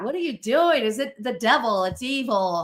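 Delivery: mock the girls' spooked questions; a hint of nervous college girls; suspicious sorority girls. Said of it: "some girls were like".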